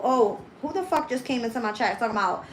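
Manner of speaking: mild mock of a commenter telling her to repent; mocking a chat troll. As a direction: lightly mimic a pushy commenter. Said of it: "They want you to go".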